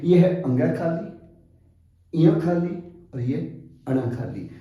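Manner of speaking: "अंगा खाली", "इया खाली", "अणा खाली" spelled out slowly, each nasal kept distinct; slow teacher demo setting the three letters apart; slow careful contrast. Shown as a demonstration. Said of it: "आज हम इसके उच्चारण को अलग-अलग करने जा रहे हैं". (धीमे, स्पष्ट उच्चारण से तीनों वर्ण अलग-अलग)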